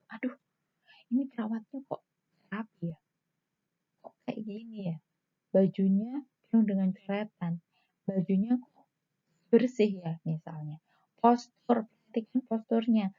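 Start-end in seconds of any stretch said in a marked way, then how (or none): 0.1-10.2 sarcastic patient. Shown as a demonstration. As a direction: murmur the complaint sarcastically. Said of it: "orang mau curhat ... sudah malas".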